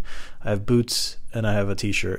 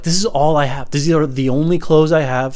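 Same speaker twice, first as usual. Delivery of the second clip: raised, higher defensive voice; heated self-defense; mad protest; 4 semitones higher, 4 dB louder than usual. Acted. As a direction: argue back, exasperated. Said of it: "I'm so mad right now".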